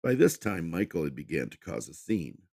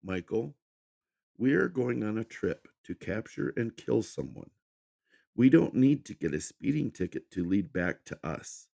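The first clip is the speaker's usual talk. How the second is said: calm; 6 semitones higher than usual. A narrator's reading. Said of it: "Fiona said in a calm voice".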